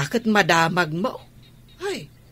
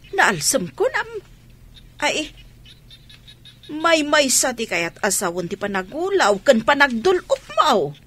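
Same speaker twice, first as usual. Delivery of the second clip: rising alarmed realization, higher; 5 semitones higher than usual. Acted. Mother realizing her daughter's symptoms, alarmed and higher. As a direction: sound the alarm as it dawns.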